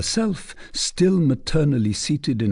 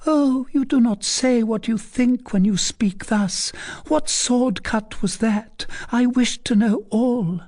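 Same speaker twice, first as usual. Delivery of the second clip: tearful plea; 13 semitones higher than usual. A narrator's reading. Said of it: "raising her beautiful eyes filled with tears".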